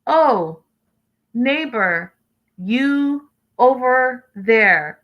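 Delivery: slow, simplified broken English to a neighbor; a light parody of pidgin talk; mock broken English. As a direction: drag out the words like a condescending tourist. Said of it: "You wouldn't talk like that".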